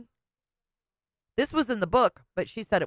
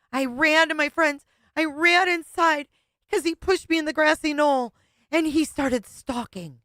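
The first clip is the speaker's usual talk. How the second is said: high, loud mocking parrot voice; mock mimicry; 8 semitones higher, 4 dB louder than usual. Co-host parodies her clip, high and loud.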